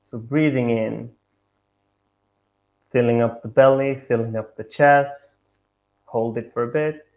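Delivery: measured meditation guidance with long pauses; guided meditation. Acted. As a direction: guide them gently, pausing between each instruction.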